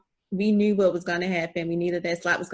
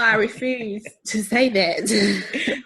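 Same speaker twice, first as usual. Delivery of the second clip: slow, drawn-out words breaking into laughter; laughing refusal; 3 dB louder, much slower than usual. Real, not acted. Host teased over Ohio State's name, refusing with a laugh.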